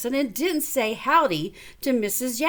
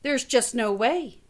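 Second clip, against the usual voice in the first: lightly voiced friend; 2 semitones higher than usual. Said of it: "Jessie said".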